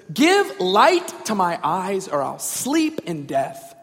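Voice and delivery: slow, dramatic pleading; drama queen plea. Acted. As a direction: draw it out with heavy drama. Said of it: "a bit of a drama queen here".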